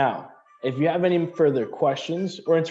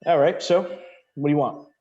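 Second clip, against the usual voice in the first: brisk NPC; 4 semitones higher, 3 dB louder than usual. Acted. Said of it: "And she goes".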